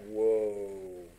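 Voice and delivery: low, long-held whoa; awed whoa. Retold or imitated. Rider seeing the angel, awed. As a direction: draw it out low in awe. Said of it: "He's going like".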